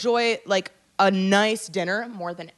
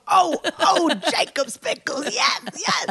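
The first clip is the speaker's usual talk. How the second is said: ecstatic; 6 semitones higher than usual. Retold or imitated. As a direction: gush over the pickles. Mock ecstasy over pickles.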